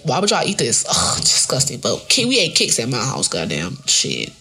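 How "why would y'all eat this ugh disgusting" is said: disgusted mock sneer; annoyed ugh. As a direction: scoff at the cereal. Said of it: "they be like".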